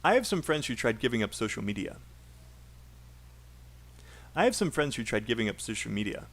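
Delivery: "I have some friends who tried giving up social media" run quickly as one unit; brisk chunk with no inner break; one linked chunk. Shown as a demonstration. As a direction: model the sentence fast and linked. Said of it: "Make sure you copy my pauses and my chunks".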